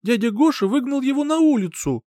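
put-on high, tearful child's complaint; crying boy telling on his stepfather. A narrator's reading. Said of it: "плача, пожаловался".

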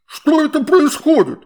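high, loud gurgling wail; creature wail. A narrator's reading. Water spirit wailing at the children, high and loud. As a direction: howl it in outrage like a water spirit. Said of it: "завопил купол".

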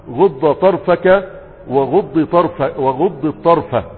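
slow, each غض ending in kasra, ghuddi; kasra always. Shown as a demonstration. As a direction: spell out غض with a final i, very slowly. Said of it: "ولغة بني كعب الكسر مطلقا". (نطق غضِّ بالكسر ببطء)

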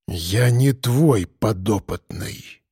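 low, slow hollow voice, as from a deep well; гулкий голос. A narrator's reading. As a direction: speak slow and hollow, echoing. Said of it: "Голос звучал гулко, будто из глубин заброшенного колодца". (гулко, будто из колодца)

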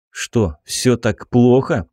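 slow wry question with a smirk. Acted. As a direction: ask it slowly, half grinning. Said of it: "попытался ухмыльнуться я".

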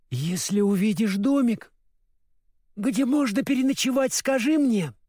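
drowsy, nodding-off request; sleepy voice. Acted. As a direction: speak like a tired girl about to fall asleep. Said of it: "попросила Элли сонным голосом".

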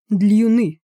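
loud, high «Длюны», foreign sounding; happy foreigner's mangled word; delighted. A narrator's reading. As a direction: pounce on the word happily. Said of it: "обрадовался датчанин".

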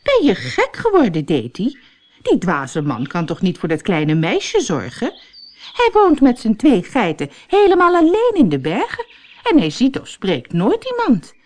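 a touch of outraged gossip; lightly voiced indignant friend. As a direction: protest that it's madness. Barbie voiced by narrator.

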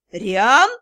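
low, loud furious repeat; furious echo. A narrator's reading. Magistr echoing his name at the heroine, furious. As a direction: throw her word back at her in rage. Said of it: "разъярённо повторил он".

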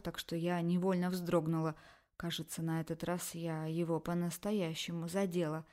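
ordinary delivery, nothing marked

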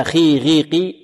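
خي غيقي with a clear i, no itbaq; open elevated letters. Shown as a demonstration. Teacher contrasting with the covered letters, lighter open articulation. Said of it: "منفتحة ماذا؟".

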